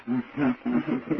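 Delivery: small, soft imitated giggle; hushed, bashful little laugh; shy giggle. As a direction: giggle quietly as if hiding shyly. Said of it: "hiding like this".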